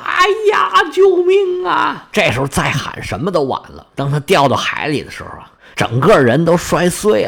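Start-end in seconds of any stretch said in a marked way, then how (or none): 0.0-2.1 very high, drawn-out slow screaming wail; a boy plunging from the sky shrieks for help; terrified cry for help. Acted. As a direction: scream it out as you fall from the sky. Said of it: "一边掉一边喊呐".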